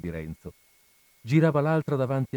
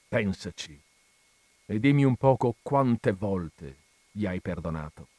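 calmer seriousness. Acted. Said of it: "con una serietà più tranquilla".

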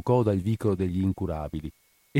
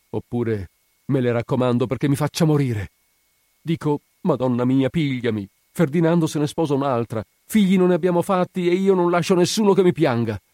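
high, mounting lament; desperate outpouring; 7 semitones higher, 5 dB louder than usual. Acted. Spina wishing for death with nobody to mourn, desperate outpouring. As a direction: build to a louder, higher despairing plea.

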